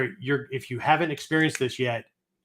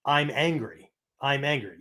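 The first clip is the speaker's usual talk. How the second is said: matter-of-fact, detached acknowledgement; unemotional, even statement; cold, analytical. Shown as a demonstration. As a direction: state the feeling coldly, like a scientist. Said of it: "Very cold, very scientific, very analytical".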